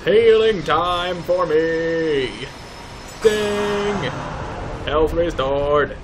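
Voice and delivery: silly put-on voice. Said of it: "Why am I talking like that?".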